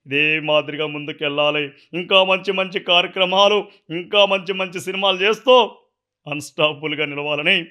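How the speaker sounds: a light take on Chandrababu's speech; Chandrababu impression. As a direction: bless the host like an elder leader. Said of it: "Chandrababu సార్ది imitate చేస్తా".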